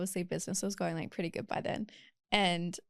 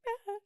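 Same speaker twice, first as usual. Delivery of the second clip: mock crying gasp; 5 dB quieter than usual. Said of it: "It's like crying".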